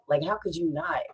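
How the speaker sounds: unvoiced, breathy repeat of the question; softly whispered aside. Real, not acted. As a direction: drop to a whisper.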